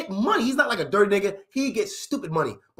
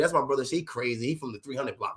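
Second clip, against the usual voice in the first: put-on lower, softer aside from the girl; sister, hushed; 8 semitones lower, 7 dB quieter than usual. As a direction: mutter the warning under the breath. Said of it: "She like".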